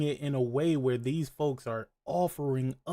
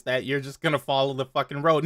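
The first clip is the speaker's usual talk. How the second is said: deadpan monotone voice; flat robotic monotone delivery; 2 semitones lower, faster than usual. Shown as a demonstration. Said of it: "in a monotone voice".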